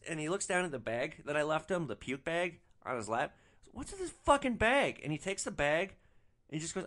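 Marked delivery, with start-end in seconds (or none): 3.7-5.0 mock outrage in a much higher voice; mad drunk passenger. Drunk passenger finding the puke bag on his lap, high mock anger. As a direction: imitate an indignant drunk, pitched way up. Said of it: "like he's mad at me".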